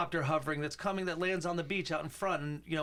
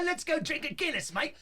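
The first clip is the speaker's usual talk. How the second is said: much higher, laughing mock Irish-Aussie voice; a hammed-up pub invite through a laugh; mock accent; 11 semitones higher than usual. Cohost attempts an accent for a pint invitation, laughing. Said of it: "I cannot".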